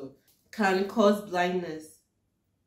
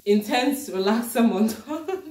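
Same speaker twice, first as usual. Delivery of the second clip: mock-dramatic announcer; 4 semitones higher, 6 dB louder, slower than usual.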